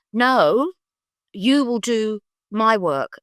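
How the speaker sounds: slow, emphatic pronouncement with pauses; acted-out prophetic insistence; solemn insistence. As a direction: overrule the child slowly and with certainty. Retold prophecy, overruling the child.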